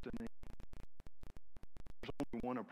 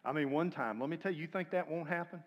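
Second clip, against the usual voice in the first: louder, animated storytelling; excited loud telling; 6 semitones higher, 7 dB louder than usual. Real, not acted. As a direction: tell it big and loud. Excited story of a stripping guy.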